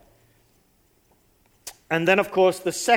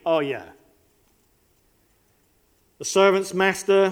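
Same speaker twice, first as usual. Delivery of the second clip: ordinary talk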